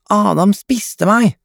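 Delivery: put-on high, slow child voice; squealing little girl. A narrator's reading. Mia tells mother Adam ate her, high drawn-out whine. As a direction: draw out a high mock complaint.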